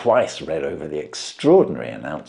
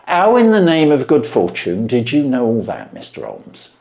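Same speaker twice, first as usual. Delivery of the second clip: higher, amazed pawnbroker voice; a plain man dumbfounded by the trick; Wilson voiced; 7 semitones higher, 8 dB louder than usual.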